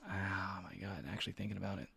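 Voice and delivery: hushed whisper to herself. Real, not acted. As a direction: breathe it out under your breath. Craving cheesecake, whispered aside.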